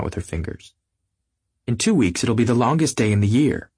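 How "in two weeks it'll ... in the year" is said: radiant. Acted. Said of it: "She looked at us all radiantly".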